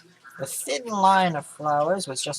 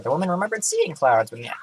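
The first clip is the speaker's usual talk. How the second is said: voice crack; 3 semitones higher than usual. Real, not acted. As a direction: voice cracks mid-sentence. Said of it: "voice crack".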